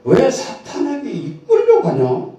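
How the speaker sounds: 높은 목소리로 웃음 섞어 의아해하며; 어릴 적 의문을 웃으며 흉내 내듯; 웃으며 되묻기. Retold or imitated. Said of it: "그 생각이 뭐냐면". (웃음 섞인 의문)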